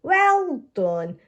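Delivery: praising. Acted. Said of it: "says Officer Panda".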